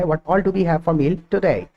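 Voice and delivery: very slow, word by word; slow model sentence. Shown as a demonstration. Teacher modelling a question for students, very slow. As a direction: stretch each word out for learners. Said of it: "दो तीन बार repeat करोगे".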